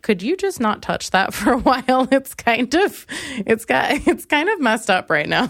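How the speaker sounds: playful whiny request; mock pleading. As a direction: beg the song to stop, half laughing. Pleading with the music, acted.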